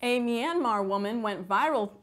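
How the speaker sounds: satirical news anchor delivery; scripted newsdesk read; mock news read. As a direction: read the joke headline like an anchor.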